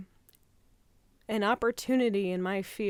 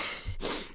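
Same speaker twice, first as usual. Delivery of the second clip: unvoiced tearful breath-laugh; 6 dB quieter than usual. Real, not acted. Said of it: "I'm crying right now".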